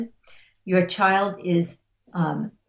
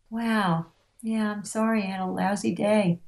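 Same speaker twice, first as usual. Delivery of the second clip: higher, gently commiserating reply; sympathetic echo; 3 semitones higher than usual. Acted. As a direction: reflect a partner's bad day with sympathy. Voices sympathetic partner echoing back.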